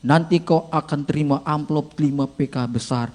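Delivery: slow, measured voice of promise; mysterious inner voice. Acted. Inner voice promising an envelope after worship, slow and measured. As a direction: announce it slowly, word by word. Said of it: "suara itu muncul lagi".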